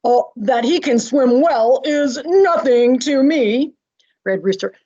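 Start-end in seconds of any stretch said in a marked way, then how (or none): 0.0-3.7 character voice. Acted. Animal character voiced in reading.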